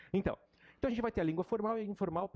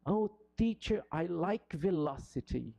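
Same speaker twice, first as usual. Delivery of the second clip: imitating a student; 3 semitones higher, slower than usual. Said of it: "Aí você vê lá um aluninho".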